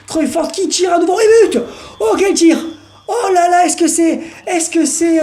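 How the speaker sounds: high, loud goal shout; excited goal call. Acted. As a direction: yell the goal like a stadium commentator. Goal scored, live commentary. (commentateur qui hurle au but)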